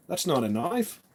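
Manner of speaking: lightly attempted Australian accent, rising at the end; rough Australian accent. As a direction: have a shaky go at an Australian accent. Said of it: "do an Australian accent".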